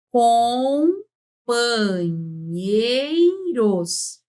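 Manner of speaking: COMPANHEIROS very slowly, com, pa, nhei, ros; syllable by syllable. Shown as a demonstration. Teacher sounding out a word for counting, very slow syllables. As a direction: stretch every syllable of Companheiros long. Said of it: "Tá assim".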